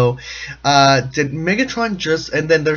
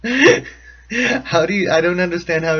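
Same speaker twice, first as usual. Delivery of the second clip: exasperated plea; 3 semitones higher than usual. Retold or imitated. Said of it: "I'm like".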